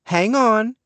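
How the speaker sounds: high call to stop them. Acted. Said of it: "my sister called".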